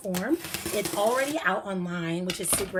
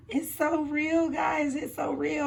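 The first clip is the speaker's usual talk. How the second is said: awed excitement; 7 semitones higher, slower than usual. Real, not acted. Overwhelmed as book goes live.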